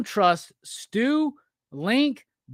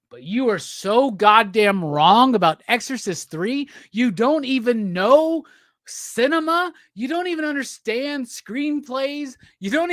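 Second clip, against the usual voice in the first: mock rant; 4 dB louder than usual.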